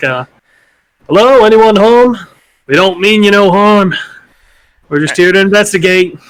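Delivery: high-pitched, loud shouted call. A player's character knocks on a door and calls inside; shouting through the door. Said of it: "knock on the door and shout in like".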